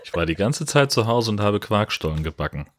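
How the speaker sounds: laughing through a joking alibi; words breaking into laughter. Real, not acted.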